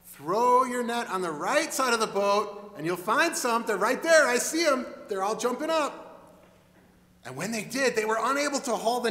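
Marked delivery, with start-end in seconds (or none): 0.1-6.0 excited pointing. Acted. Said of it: "He said".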